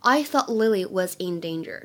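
"thought" with the final t held back before "Lily"; incomplete plosion. Shown as a demonstration. Teacher demonstrates connected speech, unreleased t in "thought". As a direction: stop the t of "thought" without releasing it. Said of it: "有一个不完全失去爆破的现象".

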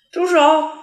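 put-on a panicked child screaming at the nurse; frantic shout. A narrator's reading. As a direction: yell "住手" with all your might. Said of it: "着急地喊".

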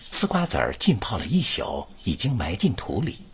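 smooth recital leading into the next phrase; model reading. Shown as a demonstration. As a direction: read it so it flows straight on. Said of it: "你听". (连贯示范朗读)

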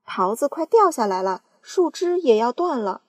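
loud, urgent warning; aunt warning the peach will fall; yelling. Acted. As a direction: shout the danger. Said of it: "嚷道".

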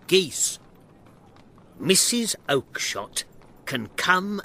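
angry shouting. Acted. Shopkeeper tired of questions about geese, angrily telling the man off. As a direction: scold him with rising indignation. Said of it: "Breckenridge shouted".

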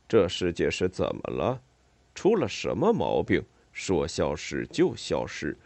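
low-pitched otter voice, grumbling; weary low grumble of an otter. Acted. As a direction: complain low, then fumble an apology.

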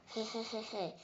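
soft "hey hey" chuckle; acted giggle. Tyrannosaur jokes with his little friend, soft chuckle. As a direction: chuckle quietly at your own joke.

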